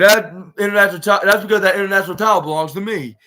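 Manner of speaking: loud, fast insistence on ownership; indignant retold claim. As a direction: stake the claim loudly, in a rush. Retold wrestler angrily claims title.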